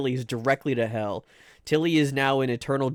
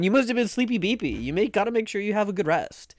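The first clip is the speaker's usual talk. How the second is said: put-on higher cooing baby-talk; playful babying; 6 semitones higher than usual. Streamer telling a sleepy viewer to rest, playful babying. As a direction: coo at someone sleepy.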